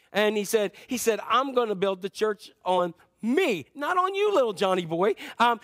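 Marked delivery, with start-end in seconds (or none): 1.3-5.1 Peter boasting. Retold or imitated. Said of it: "you can see Simon Peter going".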